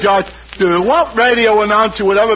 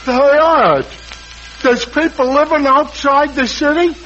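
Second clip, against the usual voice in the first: higher, wide-eyed disbelief; dim surprise; 5 semitones higher than usual. Acted. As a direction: gape at the idea that anybody lives out there. Finnegan's dim astonishment.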